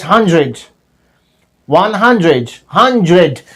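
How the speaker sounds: "hundred" said as hun-jred; native-style blended sound. Shown as a demonstration. Teacher demonstrating how natives deliver the word, J-blended. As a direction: let the d in "hundred" turn into a J. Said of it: "the word like this".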